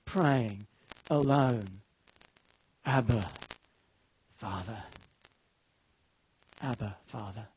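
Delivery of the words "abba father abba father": hushed, broken pleading; anguished whispered prayer. Retold or imitated. Jesus praying alone in Gethsemane, hushed and anguished. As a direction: pray it alone on your knees, barely audible. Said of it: "On his knees, praying, alone".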